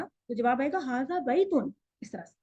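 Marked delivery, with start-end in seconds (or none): 0.8-1.7 "हाजा बैतुन" as an expressive falling answer; answering tune. Shown as a demonstration. Teacher models the answer to a question, answering tune. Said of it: "थोड़े से expressions के साथ".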